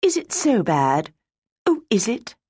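scared pleading. Acted. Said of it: "lifted imploringly to the fair boy officer's face".

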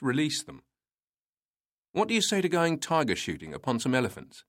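lightly amused, teasing officer; a hint of a knowing smile; slight smile in voice. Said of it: "with a slight smile in his voice".

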